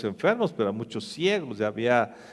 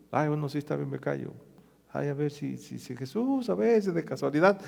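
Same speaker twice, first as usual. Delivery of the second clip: much softer, a timid resigned murmur; meek giving in; 5 dB quieter than usual. Acted. Blind beggar meekly agrees to keep quiet, hushed. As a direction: shrink back and give up, hushed. Timid reply of the crowd-cowed.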